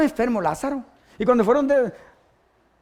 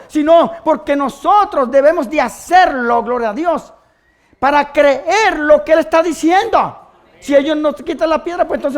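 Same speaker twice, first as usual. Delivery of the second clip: slow, emphatic, raised preacher voice; fervent preaching; 5 semitones higher, 8 dB louder than usual. Acted. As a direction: lean hard on each key word. (predicación enfática, pausada y fervorosa)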